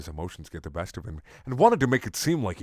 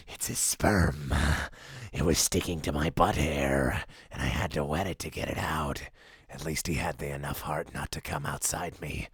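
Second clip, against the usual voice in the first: deep voice; 6 semitones lower, 3 dB quieter than usual. Acted. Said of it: "Goku's voice got real deep".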